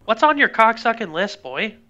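high, loud mock-tough jab; mock drill sergeant. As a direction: bark it like a rough coach.

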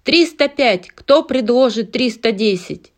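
high loud auctioneer call. Acted. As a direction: repeat the bid like an auctioneer. Auctioneer repeats bid.

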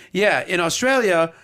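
lightly imitated Australian accent; butchered Australian accent. Australian girl explaining shouts, lightly butchered Australian accent. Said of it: "I'll butcher this Australian accent".

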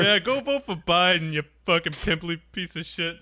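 mock angry rant. Quoting the angry man.

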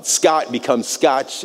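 "Scotch" said slowly, ending in a ch sound; name in Portuguese. Shown as a demonstration. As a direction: stretch out "Scott" then "Scotch" for the listener. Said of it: "that's how you say my name in Portuguese".

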